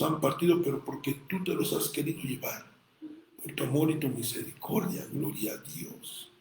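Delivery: spoken thanksgiving prayer fading to a hush; mild prayer. Acted. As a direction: thank God, ending near a whisper. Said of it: "Yo le digo".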